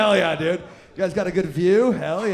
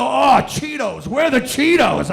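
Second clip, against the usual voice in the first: exaggerated munchies outburst; mock craving cry; 3 semitones higher, 6 dB louder than usual. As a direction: call out desperately for a snack, hammed up. Acts distracted craving mid-act.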